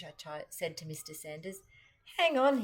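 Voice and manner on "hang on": raised, loud call to wait. Acted. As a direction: call out higher and louder to stop someone. Shopkeeper stops her, calling out.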